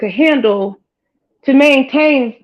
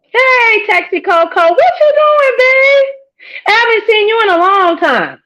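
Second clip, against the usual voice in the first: high sing-song greeting; 10 semitones higher than usual. Real, not acted. Greeting a viewer she has not seen, high and stretched.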